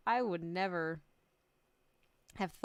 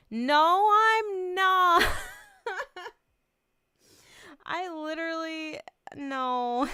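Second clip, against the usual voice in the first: much louder and higher, laughing through tears; tearful denial; 9 semitones higher, 10 dB louder, much slower than usual. Real, not acted. Streamer insisting to chat she isn't crying, loud and teary. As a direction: blurt it out, overwhelmed. Denying she's crying, overwhelmed.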